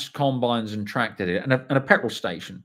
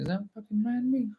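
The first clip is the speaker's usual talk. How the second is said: much higher, startled disbelief; mock disbelief at the landmark; incredulous inner question; 11 semitones higher, 4 dB quieter than usual. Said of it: "I'm thinking".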